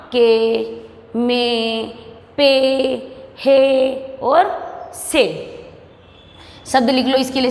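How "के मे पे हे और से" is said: के, मे, पे, हे, से each a long e; pronunciation demo. Shown as a demonstration. Teacher showing how the sign sounds, के, मे, पे held out. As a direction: hold each e in के, मे, पे, हे. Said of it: "उच्चारण कैसे होगा इसका?".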